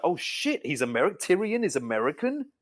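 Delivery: retold astonishment, pitch jumping up; mock-shocked realisation; surprised reaction. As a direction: relive the moment of disbelief. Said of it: "I was like".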